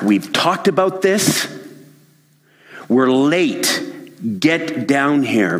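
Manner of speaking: high, slow impatient yell at his son; dad yelling back. Acted. Father yells up at his teenage son, impatient. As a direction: shout him down the stairs, drawn out. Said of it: "David yells back".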